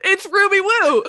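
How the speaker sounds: laughing through the words. Real, not acted. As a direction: say it while cracking up. Laughing reveal of character.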